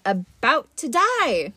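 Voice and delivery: slow, idle musing; bored god mulling it over slowly. Acted. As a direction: toy with the words lazily. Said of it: "Mister D mused".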